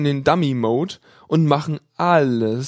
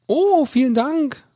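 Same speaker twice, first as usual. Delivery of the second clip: higher, slow breathy thank-you; breathed thanks; 10 semitones higher, slower than usual. A narrator's reading. Female student breathing thanks into the phone, breathy. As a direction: breathe it sweetly into the receiver. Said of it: "haucht sie ins Mikrofon".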